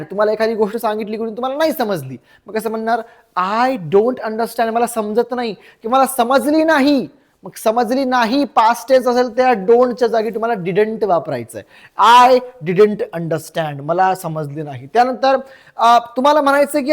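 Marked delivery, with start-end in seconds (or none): 3.4-4.7 slow, measured repeat for learners; slow teaching model. Shown as a demonstration. 12.3-13.8 very slow, lower-pitched model sentence; slow teaching model. Shown as a demonstration.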